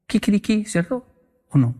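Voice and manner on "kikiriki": imitated rooster crow. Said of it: "la gallina en Colombia hace".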